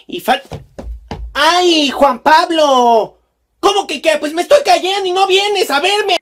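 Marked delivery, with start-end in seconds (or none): 1.3-6.2 loud, high drawn-out call; calling for help. Acted. Mother falling and calling out to Juan Pablo, annoyed.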